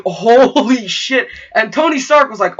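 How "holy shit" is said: awed crowd. Retold or imitated. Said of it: "everyone was like".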